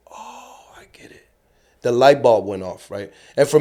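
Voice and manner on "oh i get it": realization. Retold or imitated. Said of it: "get the satisfaction of like".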